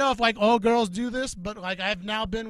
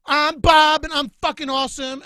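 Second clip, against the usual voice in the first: higher and louder mocking bro voice; mocking dude voice; 7 semitones higher, 7 dB louder than usual. Girl mocking Bob's intro, in a higher, louder bro voice. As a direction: puff up like a cocky dude. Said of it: "We don't sound like that".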